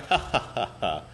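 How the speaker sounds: spelled-out ha, ha, ha; a stiff generic laugh. Shown as a demonstration. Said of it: "when I laugh, I, it sounds like a".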